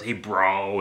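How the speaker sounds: loud, exaggerated Long Island "bro"; horrible Long Island accent. Writer opening his podcast, horrible Long Island accent. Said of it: "it's, like, this horrible accent".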